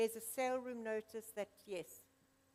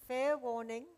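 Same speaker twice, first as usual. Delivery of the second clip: loud call; 3 semitones higher, 7 dB louder than usual. Acted. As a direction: ring out fair warning to the room. Auctioneer calls last warning.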